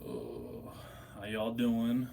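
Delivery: ordinary talk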